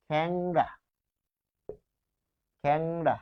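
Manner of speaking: খ্যাংড়া said slowly as "khæng-ra"; e becomes æ. Shown as a demonstration. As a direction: model খ্যাংড়া with an open æ before ng. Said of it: "এই যে এ হয়ে যাচ্ছে".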